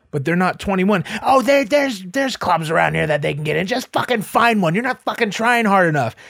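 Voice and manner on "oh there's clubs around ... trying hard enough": mad, fed-up, ranting angry voice. Speaker retells a woman scolding her boyfriend from the car: imitating an angry woman. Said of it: "She's getting so mad".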